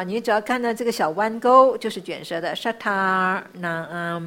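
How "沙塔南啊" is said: 沙 said as retroflex sha, slowly; slow 沙塔南啊 with the tongue curled on 沙. Shown as a demonstration. Teacher showing retroflex 沙 to students, slow. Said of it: "沙是卷舌的啊".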